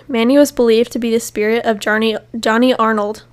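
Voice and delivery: hoarse, fading voice; strained, worn-out voice; losing voice. Real, not acted. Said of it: "sorry, I'm losing my voice".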